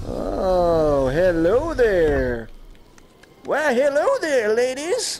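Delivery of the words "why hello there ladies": very high put-on voice, pitch pushed way up. Greeting ladies in a game, doing a Master Roshi voice. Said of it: "That's my Master Roshi right there".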